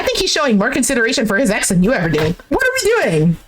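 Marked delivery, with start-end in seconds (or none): 2.5-3.4 high-pitched exasperated outburst. Pretend. Host fed up with the man's coldness, high and exasperated. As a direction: throw it up high in disbelief.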